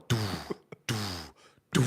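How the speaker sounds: three spaced-out "doo" impact noises; imitated mortar thuds. Retelling mortars walking closer to him, imitated thuds. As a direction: mimic rounds landing one after another. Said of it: "I remember just going".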